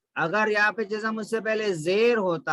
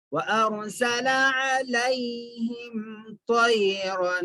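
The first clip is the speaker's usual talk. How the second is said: slow, measured tajweed chanting; Quran recitation; 2 semitones higher, much slower than usual. Shown as a demonstration. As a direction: recite slowly, holding long vowels and nasals. Recites verse for learners.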